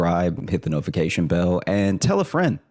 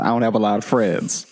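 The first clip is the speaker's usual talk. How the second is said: pleading; 4 semitones higher than usual. Retold or imitated. Begging the bank on phone.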